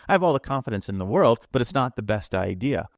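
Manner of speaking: fast, sure-sounding demo of a bad idea; confident but wrong demo. Shown as a demonstration. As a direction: rush it with full confidence. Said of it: "Which one are you more likely to follow?".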